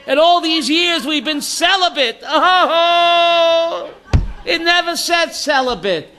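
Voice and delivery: the monk hammed up, shouting the typo; laughing mock shout. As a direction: shout it out slow, half laughing. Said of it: "And he's screaming".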